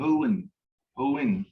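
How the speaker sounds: "hoin" with a long ee before the N. Shown as a demonstration. Teacher repeats the adverb for a student, long E. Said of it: "with that long E sound".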